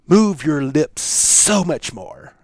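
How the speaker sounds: imitating a speaking coach; lightly voiced coaching mentor. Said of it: "in his unique manner, goes".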